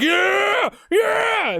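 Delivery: high, drawn-out mock cartoon yell; puffed-up cartoon character. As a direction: crow it like a tiny, chest-out show-off. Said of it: "like, a character out of Looney Tunes".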